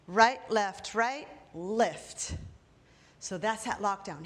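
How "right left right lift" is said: loud count. Shown as a demonstration. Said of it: "we're gonna do a lockdown".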